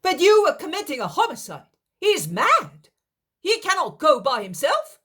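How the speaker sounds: loud, high, fast alarmed shout; shouting in protest. Acted. Daniel protesting the plan to the others, loud high shout. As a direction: cry out to stop them. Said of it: "shouts honest Daniel".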